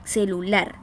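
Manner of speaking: "Celular" leaning on the final LAR; stress on last syllable. Shown as a demonstration. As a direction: put the weight on LAR in "Celular". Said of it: "es la última".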